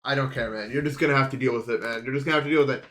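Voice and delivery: muffled, as if hand over mouth. Real, not acted. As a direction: talk through a muffled mic. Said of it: "If I sound like a muffled motherfucker".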